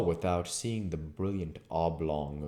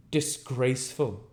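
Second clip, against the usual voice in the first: indignant vicar; 8 semitones higher, 4 dB louder than usual. Acted. The vicar indignant behind the door.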